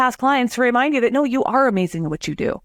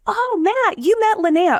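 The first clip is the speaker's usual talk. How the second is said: clients gushing; 12 semitones higher, slower than usual. Retold or imitated. Clients voiced praising her.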